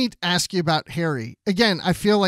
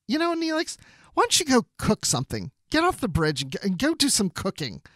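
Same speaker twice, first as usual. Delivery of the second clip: condescending Janeway; 4 semitones higher than usual. Retold or imitated. Janeway brushing Neelix off.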